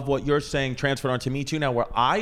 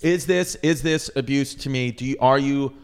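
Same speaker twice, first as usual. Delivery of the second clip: speaking with a lisp. Acted. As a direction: put on a lisp. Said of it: "Why is there a lisp coming out?".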